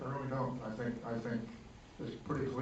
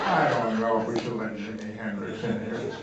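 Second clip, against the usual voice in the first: laughing through a mock hesitation; laughing mock doubt; 2 semitones lower, 4 dB louder than usual.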